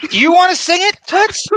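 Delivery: high teasing sing-song call; mock sing-song. Teasing co-host about singing.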